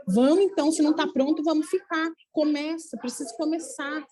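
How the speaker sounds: mock-impatient encouragement; acted urging. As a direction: play a guide prodding someone to get started. Voices a guide urging her to start.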